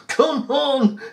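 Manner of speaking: high, insistent mock shout; retold shouting. Demanding arrest from the officer, retold high shouting. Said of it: "I'm shouting at him".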